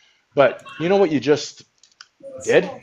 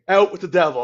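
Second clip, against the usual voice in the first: mock exorcism; 4 semitones higher than usual. Mock exorcism, first take.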